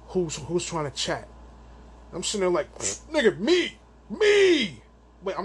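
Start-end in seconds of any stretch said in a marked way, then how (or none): 2.8-4.8 eager call-out. Retold or imitated. Calling out eagerly in chat.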